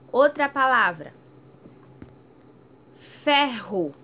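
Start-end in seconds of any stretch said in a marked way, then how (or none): 3.0-3.9 "Ferro" loud, rr drawn out; strong prolonged rr. Shown as a demonstration. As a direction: stretch the rr in "Ferro". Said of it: "um som mais prolongado, um som mais forte". ("Ferro" com rr forte e prolongado)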